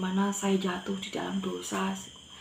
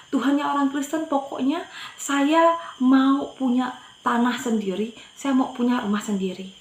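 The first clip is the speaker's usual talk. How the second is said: raised, insistent demand to God; retold defiant demand; 4 semitones higher, 4 dB louder than usual. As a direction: insist firmly, as if challenging God.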